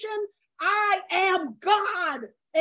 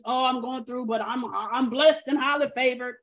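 lower, softer churchy brush-off; mock pious; 5 semitones lower, 3 dB quieter than usual. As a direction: mimic a religious cliché, hollow and pat. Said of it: "let's not get crazy and religious".

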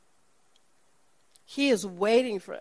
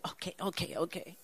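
soft, resigned okays; hushed sheepish agreement; meek okay; 3 semitones lower, 9 dB quieter, faster than usual. Retold or imitated. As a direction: give in quietly, backing down. Woman gives in.

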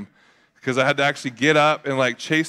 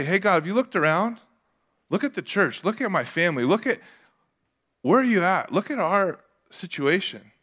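higher-pitched acted complaint; mildly snapping at God; 6 semitones higher than usual. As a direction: plead with God in mild exasperation. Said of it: "You ever snap at God before?".

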